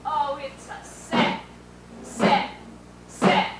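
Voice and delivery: building mock lament. Drawn-out plea of a sad story.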